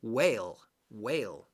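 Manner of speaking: whale as "wayl", H and E silent. Shown as a demonstration. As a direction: model whale with a plain W and a long A. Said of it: "We don't say the H, and we don't say the E".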